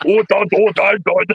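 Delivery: joking alien-creature babble; Jabba the Hutt. Pretend. Host joking after the Klingon story, rough creature impression. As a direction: play a comic space monster. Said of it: "That's more like Jabba the Hutt".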